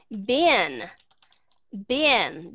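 "been" repeated with a short i; short I demo. Shown as a demonstration. Teacher quizzing students on the vowel in been. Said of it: "đó là âm gì?".

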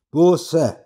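Buße hurled from a loudspeaker; thundering radio preacher. A narrator's reading. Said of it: "donnerte die Stimme".

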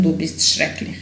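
soft unvoiced whisper; whispered repeat. Shown as a demonstration. Teacher whispering the phrase back to learners. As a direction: breathe it out without voice. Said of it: "teacher repeats phrase for learners".

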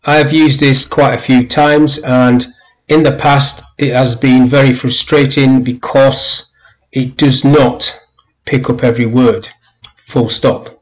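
slow, careful dictating voice; slow dictation with punctuation. Shown as a demonstration. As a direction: speak clearly for the dictation software. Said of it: "you can see there are some errors coming in as you type".

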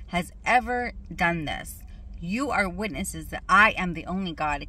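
measured, emphatic reading of scripture. Real, not acted. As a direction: read the verse out deliberately, phrase by phrase. Reads scripture again.

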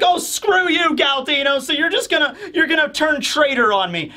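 a betrayed clown lashing out at a traitor; outraged Buggy. Retold or imitated. Buggy angry, voiced by retelling.

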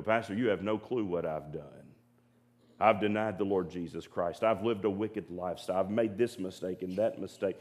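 low, subdued voice of a penitent; imagined guilty confession. Retold or imitated. Church member confessing failures to the pastor, low subdued imitation.

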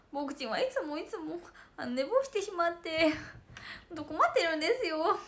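lightly voiced cute streamer persona; a mild imitation of a cute streamer, as if complaining about oversleeping; playful light impersonation of a friend; impression of 天野このわ. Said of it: "今、天野このわモノマネやってました".

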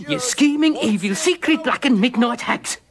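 commanding king. Shown as a demonstration. Director demonstrates the king's line.

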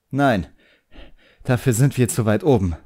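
put-on a proud young magician snapping back at his demon; the boy, irritated. A narrator's reading. Boy voiced in story.

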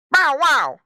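loud, high spoken bark; big punchy bow-wow; dog bark. A narrator's reading. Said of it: "barked Don".

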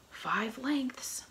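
high, loud call from the mast; lookout call. A narrator's reading. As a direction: shout the range down. Lookout calls distance.

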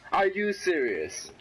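slow, drawn-out, falling incredulity; slow disbelief. Real, not acted. Player repeating himself after dying, slow disbelief. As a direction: stretch each word in disbelief.

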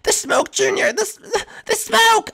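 high, frightened cry about the smoke; panicked warning. Acted. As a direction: warn Junior in a panic.

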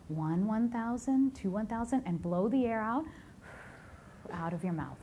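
measured breathing-exercise voice, rising at each cue; guided breathing. Acted. Leading the room through inhale and exhale, guided breathing. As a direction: count them evenly through the breath.

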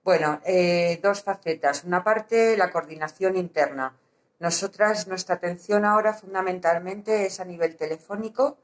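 muffled behind a mask; through a face mask. Real, not acted. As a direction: speak through a surgical mask. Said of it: "me canso de hablar con la mascarilla".

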